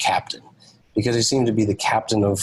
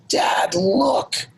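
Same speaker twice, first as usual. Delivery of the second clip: excited yell; 10 semitones higher than usual. Retold or imitated. Son suddenly yells to dad on the drive back, excited yell. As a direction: imitate a son urgently pointing something out. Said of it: "all of a sudden, Alden yells".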